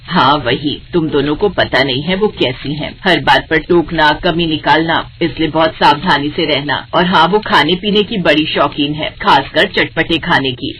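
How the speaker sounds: lightly voiced stern mother-in-law, matter-of-fact. Mother-in-law tells both bahus the aunt is coming, lightly voiced.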